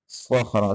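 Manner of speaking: सख्रा with thick sad, kha and ra; heavy letters. Shown as a demonstration. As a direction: thicken all three letters. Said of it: "तीनों हरूफ को मोटा करके पढ़ेंगे".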